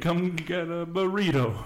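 high, slow mock Italian-Mexican accent; hammed-up stereotypical Italian-Mexican accent.

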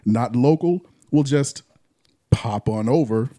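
smooth radio ad read; announcer voice. Shown as a demonstration. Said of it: "my announcer voice".

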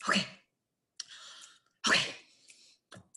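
tiny, spaced-out murmurs; mock dumbstruck replies; stunned. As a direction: imitate someone frozen, with long gaps between. Imitating partner's stunned replies.

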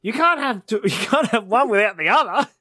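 high, loud retold protest; mock exasperation. Retelling a stand-up routine, hammed-up protest. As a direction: argue it as the baffled comic. Acting out a comic argument.

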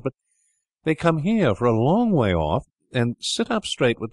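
a hint of a boy mocking grown-up visitors; lightly voiced child. Boy to siblings about tea visitors, lightly voiced child.

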